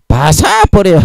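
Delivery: high, drawn-out Gyeongsang dialect word. Shown as a demonstration. Preacher showing a Gyeongsang word for smashing, drawn-out dialect. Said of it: "이게 경상도 말로 부숴버린다".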